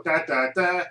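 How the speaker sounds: rising da-da-da sting; mock reveal fanfare. Recapper announcing the Deathlock reveal, mock fanfare. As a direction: sound out a little dramatic reveal.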